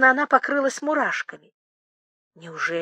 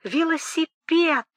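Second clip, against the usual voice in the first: higher, slower, bleating cry; 6 semitones higher, slower than usual. Acted. Boris repeats the word while climbing the table, bleating voice. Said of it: "блеющим голосом твердил".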